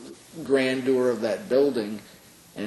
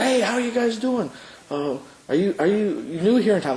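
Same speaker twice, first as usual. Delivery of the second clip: put-on high, eager friendly greeting from a chatty kid; outgoing college kid; 9 semitones higher, 4 dB louder than usual. College kid greeting visitors, high and eager. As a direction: mimic a charismatic student hailing strangers. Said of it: "He said".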